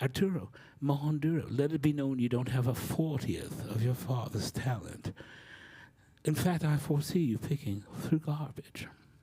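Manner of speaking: phony, put-on British accent. Speaker quoting a message someone sent him, fake British accent. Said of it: "in a fake British accent".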